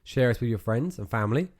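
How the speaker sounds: reading the closing script aloud; podcast outro read. Acted. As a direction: read the sign-off like an announcer.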